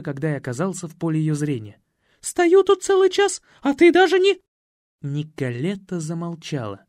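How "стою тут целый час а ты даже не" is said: very high, loud scolding; indignant mother. Acted. Маменька отчитывает сына — высокий визгливый упрёк. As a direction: scold him for making you wait. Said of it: "маменька".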